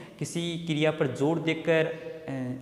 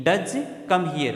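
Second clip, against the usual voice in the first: slow "does come here" with weight on does; stress on does; much slower than usual. Shown as a demonstration. Teacher showing students the emphatic does, stressed. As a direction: lean on does, slowly. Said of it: "क्रिया पर जोर देकर emphasis करके बोला जा रहा है".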